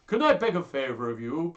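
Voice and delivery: high, loud acted plea; hammed-up entreaty; pleading. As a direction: beg a friend eagerly. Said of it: "pleaded Hortensio".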